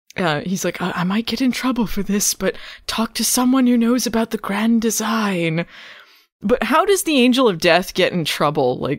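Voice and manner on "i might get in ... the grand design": put-on loose, vague British accent. Imitating the Angel of Death character, Harry: soft-spoken British Harry voice. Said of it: "He sounds vaguely British".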